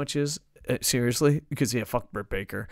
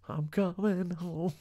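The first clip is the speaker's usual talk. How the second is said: laughing mock longing; 6 semitones higher, slower than usual. Joking longing for home.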